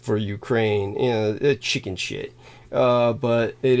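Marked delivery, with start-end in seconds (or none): 1.6-2.3 breathy whispered scoff under the breath; whispered aside. Real, not acted. Scoffing at a news headline he reads, whispered under the breath. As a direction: mutter it dismissively under your breath.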